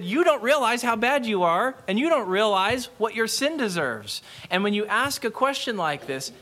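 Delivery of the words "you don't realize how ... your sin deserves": mildly heated retold rebuke, higher pitched; a touch of scolding anger; R C Sproul angry. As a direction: imitate an indignant preacher telling people off. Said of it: "it got Sproul really angry".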